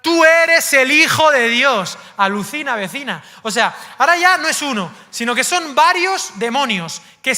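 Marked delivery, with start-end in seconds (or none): 0.0-2.0 demons shouting. Acted. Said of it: "y gritaban".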